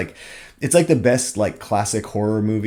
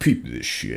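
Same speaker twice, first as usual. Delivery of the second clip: very low, deep devil voice; 10 semitones lower than usual. Discussing an album, quoting a skit where Satan speaks: Satan voice. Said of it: "I think it's the devil's voice".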